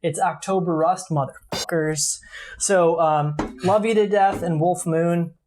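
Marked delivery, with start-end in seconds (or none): 1.1-2.2 breathy whispered aside, slow. Real, not acted. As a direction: whisper it like a dirty secret. Playful aside about October Rust.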